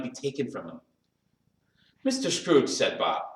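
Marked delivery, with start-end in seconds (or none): 2.0-2.7 higher, lifted announcement; announcing a toast. A narrator's reading. Bob names his employer for a toast, announcing. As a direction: call the name out as a toast.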